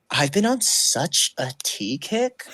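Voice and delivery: slow, dry, matter-of-fact line; dry deadpan. Retold or imitated. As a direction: say it bone dry, unbothered. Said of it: "if you say something dry enough".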